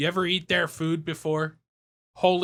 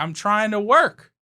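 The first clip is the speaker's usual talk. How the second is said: exasperated slow retort; 6 semitones higher, 6 dB louder than usual. Retold or imitated. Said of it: "I'm like".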